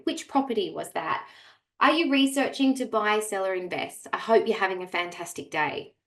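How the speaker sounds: sunny customer-care voice; upbeat, friendly tone. Shown as a demonstration. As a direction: read it like a warm helpful agent. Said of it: "read that in a negative tone. You cannot".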